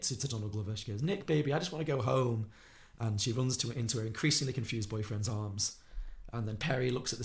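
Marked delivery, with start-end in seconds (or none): 1.0-2.5 higher, pleading acted appeal; mock tearful plea. Honey appealing to her boyfriend to leave, pleading. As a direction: play a mildly upset girlfriend. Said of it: "and she's crying".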